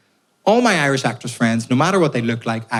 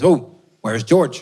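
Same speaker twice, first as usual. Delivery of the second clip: slow, lightly voiced posh officer asking; posh English officer; much slower than usual. Officer asks after the missing soldier, lightly posh. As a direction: drawl it like a posh British officer. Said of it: "he says".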